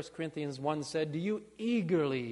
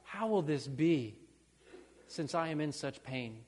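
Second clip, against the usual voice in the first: rising, louder pleading lament; pleading cry; 2 semitones higher, 5 dB louder than usual. Retold or imitated. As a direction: plead with God, building each line. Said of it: "and say".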